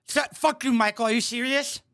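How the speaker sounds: high-pitched mock outrage; mocking imitation. Host mimics the woman berating Michael, high mocking imitation. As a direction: mimic an angry woman's garbled rant. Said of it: "who's talking like this".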